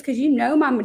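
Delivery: lightly imitated sassy little girl. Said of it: "just all sassy".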